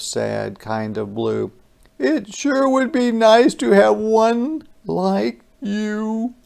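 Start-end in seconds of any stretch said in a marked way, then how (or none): 2.0-6.3 high, wistful monster voice; wistful creature. Acted. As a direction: say it longingly. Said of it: "looked at me odd, kind of sad".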